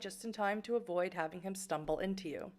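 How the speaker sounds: even, measured game narration; story narration. A narrator's reading. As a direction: read it out like a storyteller. Reads game narration aloud.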